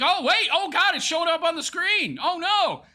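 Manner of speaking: high, loud mock panic; hammed-up oh no. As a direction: play the streamer's panic for laughs. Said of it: "He's like".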